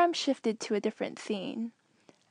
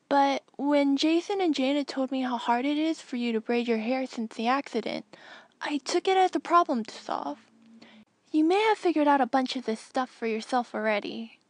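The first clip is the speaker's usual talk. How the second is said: put-on a boy explaining kindly, slightly raised pitch; young Anakin; 3 semitones higher, 3 dB louder than usual. Anakin's hologram message to Tenel Ka, lightly voiced earnest boy.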